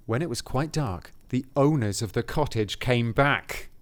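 measured fairy-tale reading; story narration. A narrator's reading. Reading the cottage description to a co-host, story narration. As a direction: read it aloud as a storybook.

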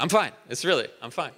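tight, forced insistence; mild mock sulk; insisting passive-aggressively. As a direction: insist you're fine when you're clearly not. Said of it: "passive-aggressive person".

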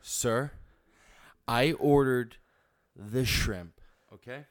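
Karen complaining. Acted. Karen skit complaining to waiter.

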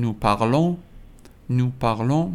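"parlons" ending in a nasal on, final s silent. Shown as a demonstration. Teacher repeats the nous form, "parlons" ending in nasal on. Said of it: "تلفظش هم اون هست".

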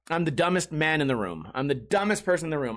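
ordinary delivery

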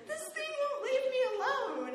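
whiny mock distress. Complaining to John about the fly, high desperate whine. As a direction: wail it like the fly is torturing you. Fly keeps buzzing her.

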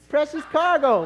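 slow, high, loud precious cargo; emphatic drawn out. Retold or imitated. Husband stressing his wife is precious cargo. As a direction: lean hard on precious cargo. Repeating joke.

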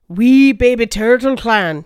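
put-on slow, drawn-out stab at a Scottish accent; attempted Scottish accent. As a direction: announce it slowly with a rough Scottish accent. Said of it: "In a Scottish accent".

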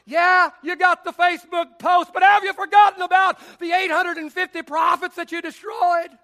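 loud, a hint of an exasperated servant; scolding servant. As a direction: challenge him like an impatient servant. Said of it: "his servant would say".

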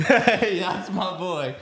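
loud, high cheer; excited cheer. Real, not acted. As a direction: hype him up loudly. Cheering friend who takes more sauce.

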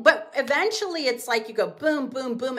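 ordinary delivery

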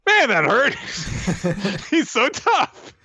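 high, squeaky mock hero voice; hammed-up high-pitched reaction; hurt anime hero. Voicing Luffy after being smashed down.

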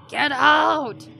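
mild mock smoker yell. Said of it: "sounded like a smoker yell".

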